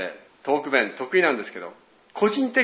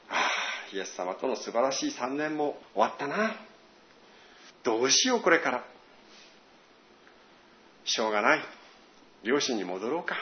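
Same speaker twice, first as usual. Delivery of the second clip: dejected. Retold or imitated. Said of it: "落胆した気持ち".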